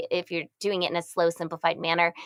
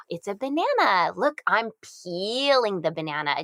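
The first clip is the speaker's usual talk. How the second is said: put-on showing baby a banana; 3 semitones higher than usual. Shown as a demonstration. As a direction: show it to a baby with wonder. Demo of talking to baby.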